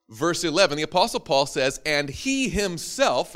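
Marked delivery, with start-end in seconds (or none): 1.9-3.3 "he himself" said slowly and weighted; slow emphasis. Shown as a demonstration. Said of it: "notice that's he, capital H".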